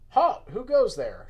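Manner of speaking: loud, high guard's shout; shouted challenge. Acted. Lone guard challenges strangers at the entrance, shouting. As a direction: call out sharply to stop an intruder. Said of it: "shouted a lone guard".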